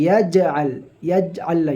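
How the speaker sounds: "ইয়াজআল" with a small push on the jim; bounced jim. Shown as a demonstration. Teacher demonstrating the bounced jim. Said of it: "জিম থাকলে একটুকু ধাক্কা দিয়ে".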